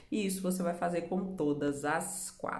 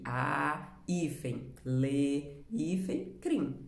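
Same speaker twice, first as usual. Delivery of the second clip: spelled out by syllable; 3 semitones lower, much slower than usual. Shown as a demonstration. Teacher dictates what to write, "a, hífen, le, hífen, crim" in pieces. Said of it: "vocês vão escrever a palavra separada".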